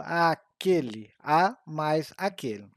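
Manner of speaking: aquele, a mais aquele drawn out slowly; slow example. Shown as a demonstration. Teacher slowly splitting the crase for students. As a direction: break the contraction apart word by word. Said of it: "contração da preposição a com a".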